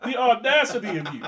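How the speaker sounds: laughing mock indignation; laughing mock outrage. Real, not acted. Cohost laughing in mock outrage at his LeBron comparison. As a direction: scold him through a laugh.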